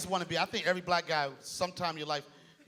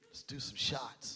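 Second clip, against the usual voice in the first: white guy voice; 6 semitones lower, 10 dB quieter, much slower than usual. Retold or imitated. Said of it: "a white guy come up to you like this".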